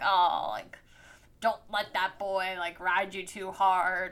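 a lightly voiced fussy older lady; motherly warning from an older woman, slightly put on; Miss Crane voice. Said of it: "Can't fucking deal with your Miss Crane voice".

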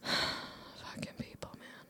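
breathy whispered grumble, slow; a low whispered curse to yourself; whispered aside. Real, not acted. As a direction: mutter it under your breath, fed up. Muttered aside after quoting critics.

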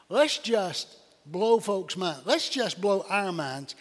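rally the congregation, slowly; rousing exhortation. Acted. Preacher urging the church to give big: slow, loud, fervent.

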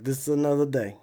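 badly faked Russian accent, unfazed; lightly put-on Russian accent; horrible Russian accent. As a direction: shrug it off in a bad Russian accent. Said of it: "what is this horrible Russian accent".

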